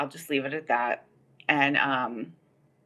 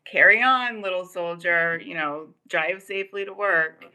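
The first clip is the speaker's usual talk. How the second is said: kindly cop; 4 semitones higher than usual. Retold or imitated. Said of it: "he was just like".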